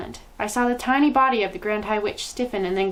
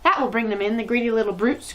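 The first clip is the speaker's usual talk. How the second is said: greedy crowd. Acted. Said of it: "cried the audience".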